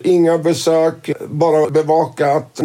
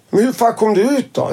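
baffled; 7 semitones higher than usual. Retold or imitated. Tony baffled how Daniel got out.

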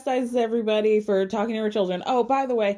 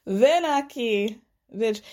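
slow, mocking fake Spanish accent; mock Spanish accent, drawn out; slower than usual. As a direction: stretch out a put-on Spanish accent. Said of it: "the accent got more and more thick".

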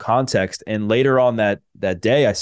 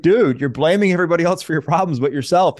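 cellmate's tough talk; 8 semitones higher than usual. Retold or imitated. Cellmate's tough-love callout, voiced.

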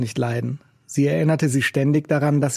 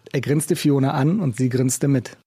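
ordinary delivery, nothing marked

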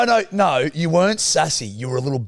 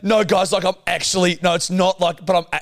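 mock squealing worry; 3 semitones higher than usual. Man mimics his partner's fretting to the crew, mock squealing. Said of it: "squeal about it".

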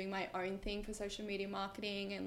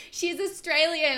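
high, loud, slow whiny mock of a commenter; 8 semitones higher, 11 dB louder, slower than usual. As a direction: mimic the outraged commenters, drawn out. Mocking outraged commenters.

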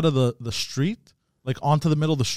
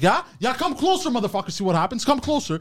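retold taunt; 7 semitones higher than usual. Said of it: "I'm like".

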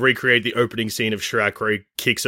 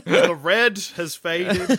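slow dramatic voice; 6 semitones higher, much slower than usual. Pretend. Mock dramatic narration.

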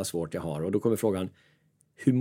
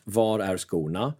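lazy slow inner voice; 2 semitones lower, much slower than usual. Retold or imitated. Lazy sofa thoughts acted out.

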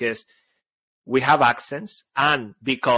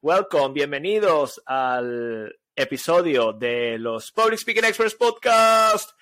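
mock showman welcome; slower than usual. Host greeting listeners in Spanish, mock announcer. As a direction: ham up the show welcome.

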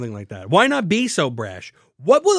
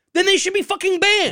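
emphatic; 12 semitones higher than usual. Real, not acted. Heated argument climax.

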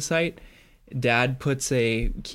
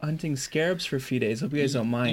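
feigned casual; 6 semitones higher than usual. Acted. Acting Greylick's casual return.

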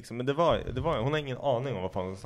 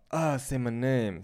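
mock sultry line; much slower than usual. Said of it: "det är inte som att jag bara".

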